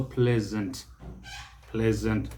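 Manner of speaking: pleasant with a voiced z, PLEZ-unt; Z pronunciation. Shown as a demonstration. Teacher applies the S rule, Z-sound pronunciation. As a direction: buzz the s in pleasant. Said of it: "S takes the Z sound".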